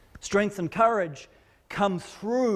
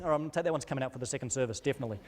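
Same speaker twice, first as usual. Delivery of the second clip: quiet aside; 7 semitones lower, 6 dB quieter, much faster than usual. Real, not acted. Aside about cutting the bit.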